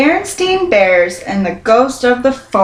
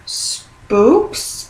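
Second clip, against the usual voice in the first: gasped; 2 semitones higher than usual. A narrator's reading. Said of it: "gasped the scouts".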